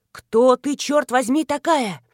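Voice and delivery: loud furious demand; angry shout. Acted. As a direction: yell it in her face. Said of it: "прорычал он".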